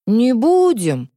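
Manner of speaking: slow, let-down drawl; disappointed drawl. Acted. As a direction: stretch it out, disappointed. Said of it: "разочарованно протянул мальчишка".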